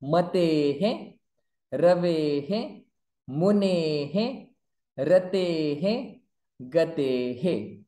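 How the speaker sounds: Matehe, Ravehe with a clear he at each end; visarga echo drill. Shown as a demonstration. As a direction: sound each visarga as he after the e. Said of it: "Before visarga a".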